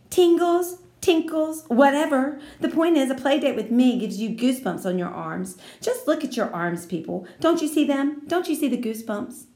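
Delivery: high, loud brush-off then coaxing; bossy girl shrugging it off; dismissive Lucille. Acted.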